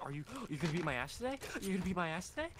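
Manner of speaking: eager, quick mock question; excited golden retriever. Imitating a friend who always asks, eager and puppyish. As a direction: ask it like an excited dog, quickly. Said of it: "sound like an excited golden retriever".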